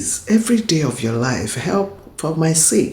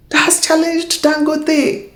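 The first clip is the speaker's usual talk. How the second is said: laughing repeat; 13 semitones higher, 3 dB louder than usual. Real, not acted. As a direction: repeat it high, breaking into a laugh.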